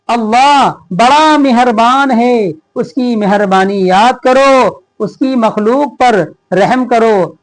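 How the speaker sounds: each word read out slowly and evenly; slow lesson reading. Shown as a demonstration. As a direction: read it aloud clearly for young pupils. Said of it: "reads the lesson text slowly". (बच्चों को पाठ पढ़कर सुनाते हुए, धीरे-धीरे)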